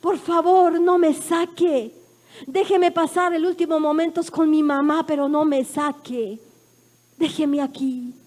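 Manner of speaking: loud, slow begging; son's tearful plea. Retold or imitated. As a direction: plead like a crying boy.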